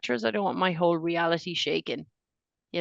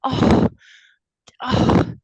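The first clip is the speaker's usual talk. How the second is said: surprised; 9 semitones higher, 10 dB louder, much slower than usual. Real, not acted. Learning Lee Pace is American.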